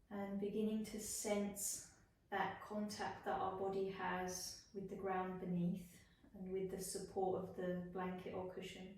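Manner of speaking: unhurried body-scan voice with long pauses; guided meditation. Acted. Yoga teacher guiding students through a body scan, guided meditation. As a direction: lead them gently into rest, phrase by phrase.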